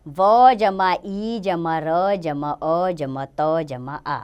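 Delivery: very slow, each letter of "वीरता" set apart with "जमा"; slow spelling out. Shown as a demonstration. Teacher spelling a word slowly for pupils. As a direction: spell "वीरता" out piece by piece, unhurried. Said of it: "इसका वर्ण विच्छेद".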